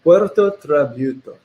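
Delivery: slow, deliberate Spanish accent; proud put-on Spanish pronunciation; showy Spanish accent. Shown as a demonstration. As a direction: roll the tongue on it, Spanish style. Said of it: "the way you roll your".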